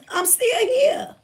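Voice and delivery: high, slow, laughing through the words; laughing triumph. Real, not acted. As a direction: savor it, laughing with joy. Repeating triumphant survival claim.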